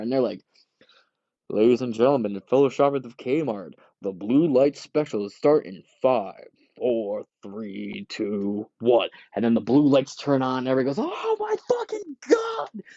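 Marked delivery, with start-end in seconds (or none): 1.5-9.1 mock Kmart loudspeaker countdown; store announcer. 11.0-12.8 very high, slow shopper's screech of joy; ecstatic shriek. Retold or imitated. Shoppers scream at deal.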